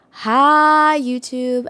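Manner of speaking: loud, bright hi YouTube demo; YouTube intro greeting. Shown as a demonstration. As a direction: show chat how to greet YouTube. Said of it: "We go".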